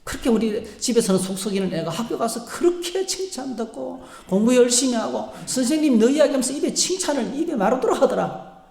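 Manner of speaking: mother exclaiming to her son; mother's outburst. Retold or imitated. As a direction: burst out at the son, amazed. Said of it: "아들을 버럭거리고".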